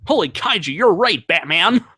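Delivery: excited sidekick Robin voice. Pretend. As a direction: gasp it out like Robin. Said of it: "he always upstages me on almost every impersonation".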